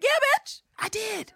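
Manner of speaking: high, cocky comeback; mock-sassy yeah bitch; sassy Eve. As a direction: toss it off with attitude. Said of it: "And Eve is like".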